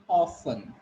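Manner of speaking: "often" as OFF-un; silent T. Shown as a demonstration. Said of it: "which letter is silent".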